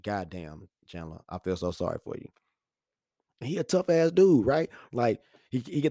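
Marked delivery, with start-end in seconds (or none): 0.0-2.3 low, very soft pity; sympathetic. Retold or imitated. Dad feels for son getting shots, hushed sympathy. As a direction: murmur it with sympathy, pitched down. I feel so sorry for you.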